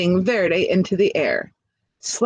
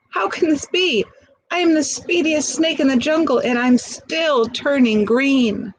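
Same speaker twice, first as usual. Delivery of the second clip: dismayed; 6 semitones higher than usual. Acted. Shocked snake protests.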